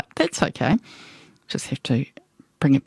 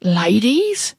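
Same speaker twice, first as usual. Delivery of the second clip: put-on old lady; 6 semitones higher than usual. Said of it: "she said".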